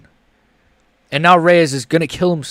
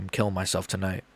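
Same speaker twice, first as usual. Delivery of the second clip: mock despair; 9 semitones lower, 11 dB quieter, faster than usual. Real, not acted. Mock despair after the loss.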